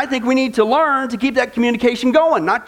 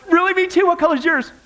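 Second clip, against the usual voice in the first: high, gushing mock sweetheart voice; a hint of a giddy new girlfriend, pitched up; lovestruck girlfriend; 6 semitones higher than usual. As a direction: ham up a smitten girl over nothing. Voicing a lovestruck partner's chat.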